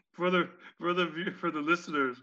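usual speaking voice

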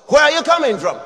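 father confronting his son; mock father demand. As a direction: bark it like a stern dad. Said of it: "Daddy comes before he does".

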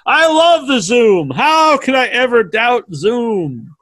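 high, gushing mock enthusiasm; hammed-up change of heart, pitched high; mock convert. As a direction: play an overjoyed new fan, drawing words out. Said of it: "You'll be like".

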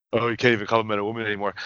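fast, sneering passive-aggressive mock; petty passive-aggressive mockery. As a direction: mimic the petty whine, quickly. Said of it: "petty, passive-aggressive".

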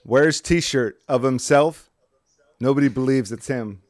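reading the meme slowly; slow deadpan meme read. Retold or imitated. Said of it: "It says".

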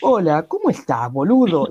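hammed-up Spanish take on porteño slang; mock Spanish accent. Mocking how Spaniards imitate Argentines, in a Spanish accent. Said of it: "Y ellos te van a decir".

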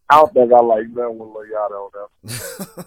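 teasing echo with a different voice; mock the friend's words; mocking imitation. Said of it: "Ooh. laughs, mimics the line".

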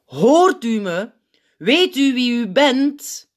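slow, loud address to someone dazed; traag en luid. A narrator's reading. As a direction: spell it out loudly, word by word. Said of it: "hij zegt het traag en luid". (traag en luid, nadrukkelijk)

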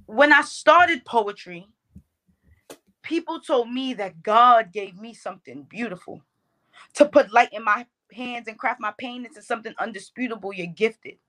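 spoken-word poetry, lifted and deliberate; poem recitation. Shown as a demonstration. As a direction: perform the verse with poetic pauses. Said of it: "that poem that you're referencing".

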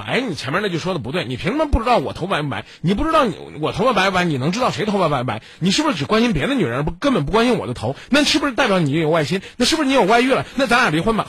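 nitpick harder and harder until you explode; mock nagging wife. Host mocking the caller's picky complaint to her husband, building to a high outburst. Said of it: "你非得揪着说".

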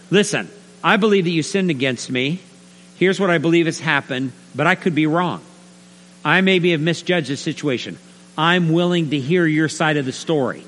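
measured, mild reproof; tentative rebuke. Acted. Preacher models talking to a brother, tentative. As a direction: gently raise it, open to being wrong. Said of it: "tentatively rebuke him".

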